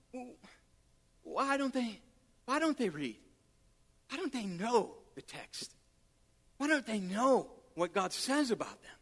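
soft, dropping sad questions; sad, quiet lament. Retold or imitated. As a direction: ask it quietly, saddened and disbelieving. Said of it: "I began to be so sad".

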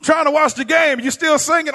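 high, loud grumbling husband; imitating an annoyed husband; mock husband. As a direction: whine it like a husband missing the game. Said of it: "he always say".

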